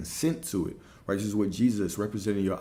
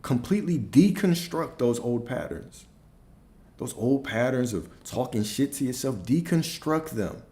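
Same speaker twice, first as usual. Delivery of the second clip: raised-pitch, insistent coaching; with authority; 5 semitones higher, 3 dB louder than usual. Real, not acted. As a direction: drive it home with commanding conviction. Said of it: "step into these with authority".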